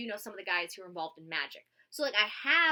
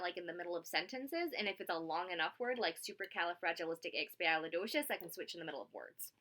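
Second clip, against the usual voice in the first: softer, switching Scottish and American accents; 3 semitones lower, 6 dB quieter than usual. Shown as a demonstration. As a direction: slip between Scottish and American mid-sentence. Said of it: "I can switch between my accent".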